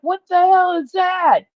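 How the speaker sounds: high, loud mock shout of alarm. Voicing a startled viewer who sees the cat, with a high loud shout. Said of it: "you see her looking up there like".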